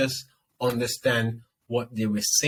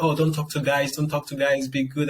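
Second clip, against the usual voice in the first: mimicking nagging parents; 4 semitones higher than usual. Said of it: "they'll be like".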